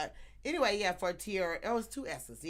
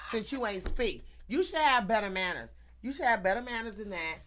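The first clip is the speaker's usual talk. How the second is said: mock scolding; 2 semitones higher than usual. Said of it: "He like".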